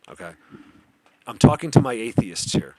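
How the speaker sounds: usual speaking voice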